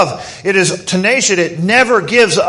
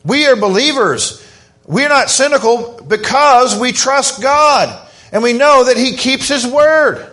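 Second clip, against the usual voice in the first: excited preaching; 5 semitones higher than usual. Real, not acted. Preacher rallying the congregation toward hope, excitedly. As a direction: build it up with real fire. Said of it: "I'm getting a little excited".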